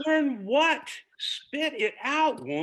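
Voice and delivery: loud, high and impatient. Acted. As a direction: demand she spit it out. Impatient husband interrupts his wife.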